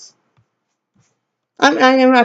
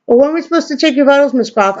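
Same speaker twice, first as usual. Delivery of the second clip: quick nurse voice; 5 semitones higher, faster than usual. Retold or imitated. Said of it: "nurse asks".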